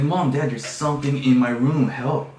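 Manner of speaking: high, very loud plea; acted panicked shouting; desperate calling out. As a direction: yell to parents for help. Calling parents for help again.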